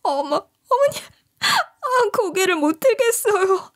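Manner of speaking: retold crying plea; tearful plea. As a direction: sob out a plea for an ambulance. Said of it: "울면서 하소연을 하기 시작했어요".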